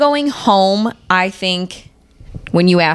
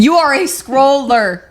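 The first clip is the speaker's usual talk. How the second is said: teasing; 6 semitones higher, slower than usual. Real, not acted. Teasing mom, laughing.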